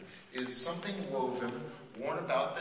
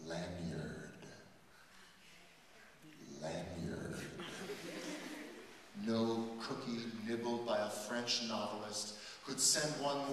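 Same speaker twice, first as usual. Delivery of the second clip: measured, expressive poem reading; poem recitation. Acted. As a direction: recite it to the room like a performed poem.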